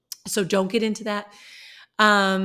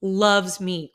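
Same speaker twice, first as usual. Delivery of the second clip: "Loves" hit louder, set apart after a pause; stress on Loves; 5 dB louder than usual. Real, not acted. Correcting any idea of past tense, stress on Loves. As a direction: punch "Loves" to mark the present tense. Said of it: "notice how I didn't say loved".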